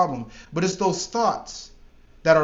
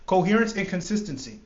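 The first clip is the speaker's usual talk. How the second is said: "Coherence and consistency" restated clearly, weight on "coherence"; clean retake. Real, not acted. Coach fixing his own stumbled phrase, stressing "coherence". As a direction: land "coherence" firmly after the fumble. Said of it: "God damn".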